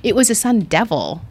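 understated retold put-down; matter-of-fact correction. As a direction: correct the gushing with plain fact. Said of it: "And she's like".

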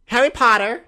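put-on "Harry Potter" called out high and loud in an American accent; American Dumbledore. Calling Harry's name from the goblet, loud American accent. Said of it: "He goes really American".

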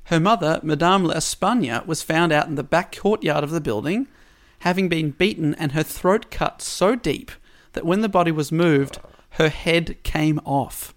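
measured storytelling, lingering on key words; story narration. A narrator's reading. Podcast host recounts the double murder at Rue Morgue, story narration. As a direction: read out a murder mystery with drawn-out phrases. Reads prepared story summary aloud.

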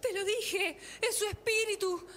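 hushed mystical medium voice; seance medium. Acted. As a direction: speak to the spirit in a trance. Medium addressing the spirit. (médium en trance, voz susurrante)

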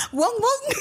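high-pitched "wong" barking noise; mum's dog bark. Retold or imitated. Grandma teaching Luna dog sounds, high laughing bark. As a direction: imitate mum's odd bark through laughter. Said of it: "my mom's like".

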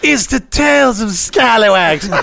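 slow, high spooky announcer voice; hammed-up TV host intro; show announcer.

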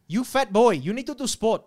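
Asian-accented masseuse impression; imitated Asian accent. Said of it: "kept talking to me like this".

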